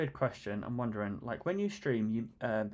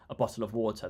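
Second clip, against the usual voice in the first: "water" with an R at the end, "wɔtə˞"; American pronunciation. Retold or imitated. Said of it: "they say".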